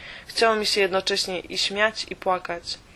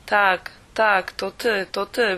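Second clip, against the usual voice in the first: lekki radosny okrzyk, trochę głośniej; z rozpoznaniem i radością, niezbyt głośno; wykrzyknęła; slower than usual. A narrator's reading. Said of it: "wykrzyknęła". (pielęgniarka rozpoznaje Corrie, umiarkowanie radosny okrzyk)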